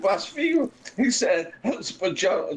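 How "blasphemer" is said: retold accusation. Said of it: "And he said".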